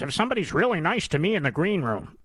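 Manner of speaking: sing-song put-on voice, stress on "really"; a prissy dismissive voice; mocking put-on voice. Host mocks a Todd defender in a put-on voice.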